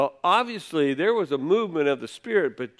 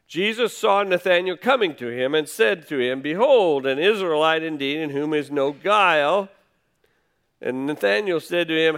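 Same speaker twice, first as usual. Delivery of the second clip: scripture reading. Acted. Reads scripture aloud.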